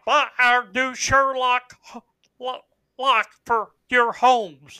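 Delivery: hammed-up commercial pitch; mock ad voice. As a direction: sell the lock like a TV ad. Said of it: "commercial for a lock company".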